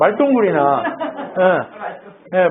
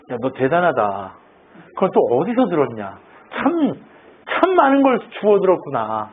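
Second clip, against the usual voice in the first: sarcastic sneering. Acted. Job jeering at friends who lecture him, sarcastic. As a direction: act out a mocking compliment. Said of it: "막 이렇게 비아냥거리는 거예요".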